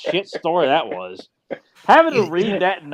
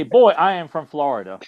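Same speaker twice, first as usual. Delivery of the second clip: Florida accent. Shown as a demonstration. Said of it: "Say, say".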